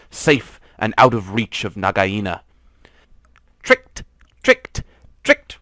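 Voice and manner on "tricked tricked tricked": gleeful chuckle. A narrator's reading. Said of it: "chuckled Rikki Tikki".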